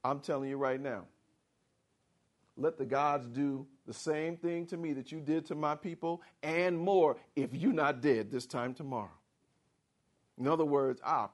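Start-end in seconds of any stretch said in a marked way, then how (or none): 0.0-9.2 low, soft, threatening vow; quiet menace. Acted. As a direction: promise his death coldly. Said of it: "that's when she said".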